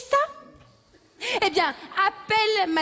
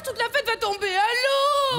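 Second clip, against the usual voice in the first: crying; 6 semitones higher than usual. Acted. Pipolette about to cry.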